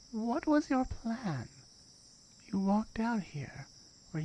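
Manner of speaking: cold, measured guardian questioning an intruder; stern guardian. Acted. Guardian questions the reckless climber, coldly stern.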